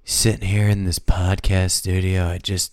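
nineties villain. Retold or imitated. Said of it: "You sound bad".

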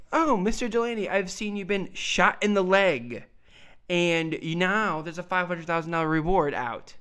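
lightly voiced skeptical detective; a hint of a cold inspector probing. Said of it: "I wanna hear your detective voice one more time".

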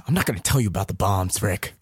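put-on Tyler Perry's old woman voice; a lightly voiced old lady. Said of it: "there's an old woman voice on".

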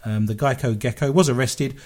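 lively, emphatic radio story reading; story read aloud. Acted. Radio host reads listeners a goblin story, read-aloud voice. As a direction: read the odd news item with relish.

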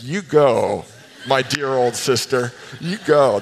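laughing cheer. Retold or imitated. Cheering on choir member, laughing.

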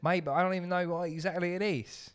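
loose, uncertain Birmingham accent. Shown as a demonstration. Co-host unsure what accent it is, loose Birmingham accent. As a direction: slip into a rough Birmingham accent. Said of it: "it's like Birmingham or something".

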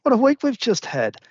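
high, emphatic disbelief on what; exasperated. Real, not acted. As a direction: stress what in mock despair. Restarts the exclamation after a laugh.

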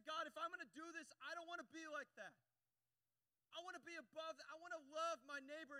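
high, loud retold prayer; impassioned plea. Preacher retelling his tearful prayer, impassioned plea. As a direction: plead earnestly with God. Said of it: "I began to weep".

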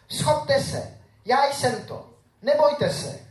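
lightly voiced Jesus soothing his scared friends; Jesus reassuring. Jesus calling to frightened disciples on the boat, lightly voiced.

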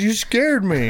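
high-pitched imitation of a crying complaint; mock tearful. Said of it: "Ansley started crying".

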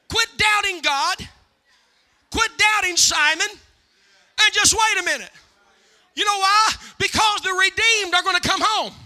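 loud, emphatic preacher's delivery; punchy, forceful sermon exhortation; full-force preaching. Real, not acted. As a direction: drive it home to the congregation, pausing between phrases. Preaches to congregation.

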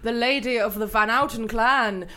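slow, hammy courtly olde speech; renaissance fair olde speech. Pretend. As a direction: ham it up like a medieval herald. Improvised olde-worlde courtly scene.

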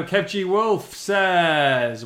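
stretched-out howling wolf voice. Pretend. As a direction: howl the name like a wolf. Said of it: "bit of a wolf howl for Kev".

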